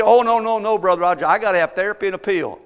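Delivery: brushing off the preacher, loud and defensive; mock protest. Preacher mimics a doubter refusing his advice, mock loud protest.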